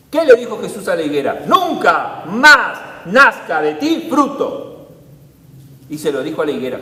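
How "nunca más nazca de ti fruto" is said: slow, loud, commanding pronouncement; solemn command. Acted. Preacher voicing Jesus's solemn curse on the fig tree.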